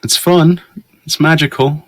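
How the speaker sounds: high, coaxing creepy stranger; creepy van guy. Pretend. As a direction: lure them in like a creepy stranger. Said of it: "you really sound like a creepy dude in a van".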